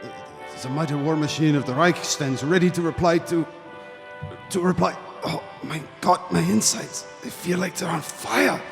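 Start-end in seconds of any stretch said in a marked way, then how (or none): 5.2-8.6 put-on gasping German-accented broadcaster in pain; acted agony, voice partly failing; stricken in agony. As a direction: choke it out as sickness takes hold. Broadcaster falls ill on air.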